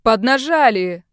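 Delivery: slow loud rallying yell. Acted. Hawaiian-shirt man yells at captives to rock the cage, loud yell. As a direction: rouse the others to push. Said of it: "заорал гавайец".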